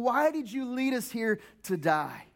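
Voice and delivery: slow, mild accusing whine; complaining Israelites. Retold or imitated. Pastor retelling Israelites complaining to Moses, slow mild whine. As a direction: lament it lightly to Moses. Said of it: "they start complaining".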